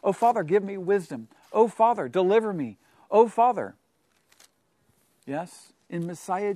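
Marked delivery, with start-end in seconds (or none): 0.0-3.7 crying to the Father. Shown as a demonstration. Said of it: "crying to our Father in heaven".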